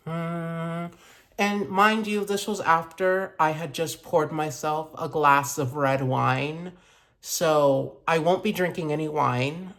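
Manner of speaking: talking with whitening strips on teeth. Real, not acted. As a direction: speak around strips on teeth. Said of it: "I'm gonna sound a little ridiculous today, but that's only because I put some whitening strips in my teeth".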